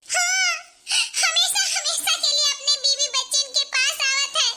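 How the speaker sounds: half crying, half laughing; laughing through mock sobs. Wife tells lover her husband is home forever, laughing mock sob. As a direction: sob and giggle at once.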